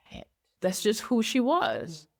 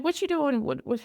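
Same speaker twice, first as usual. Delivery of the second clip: impatient boss; 5 semitones higher, much faster than usual. Retold or imitated. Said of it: "where I'm just like".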